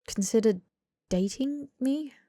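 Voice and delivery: a hesitant hopeful question. Acted. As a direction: stretch it out shyly, hoping. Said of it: "He lifted his brows hopefully".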